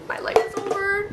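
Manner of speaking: high, dramatic moan of doom; mock despair. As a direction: ham up the hopelessness. Caught by cops, sigh first.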